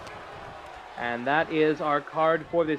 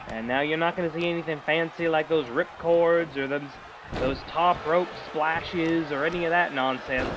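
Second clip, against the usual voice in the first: lightly voiced Southern old-timer wrestler; southern accent; 2 semitones lower than usual. Commentator speaking for the old-fashioned father, light southern accent. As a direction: put a touch of Southern accent on it. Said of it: "gave him a southern accent".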